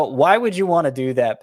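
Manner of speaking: exaggerated disbelief, pushed up and loud; mock incredulous. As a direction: ask it like you can't believe the choice. Naming the pick by incredulous question.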